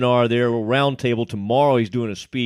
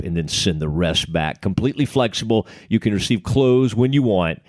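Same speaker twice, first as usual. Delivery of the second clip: upbeat sponsor read, selling it; 2 semitones lower than usual. Acted. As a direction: pitch the product like a radio spot. Host reads sponsor ad.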